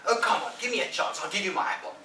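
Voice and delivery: high, loud eager begging; pleading Ben. Acted. Ben begging Tom for a turn, loud pleading. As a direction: beg eagerly.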